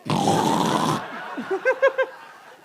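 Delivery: long, loud pig-like snort. Retold or imitated. Comic teasing an audience member about their snort, mock pig snort. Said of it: "more like a fucking pig".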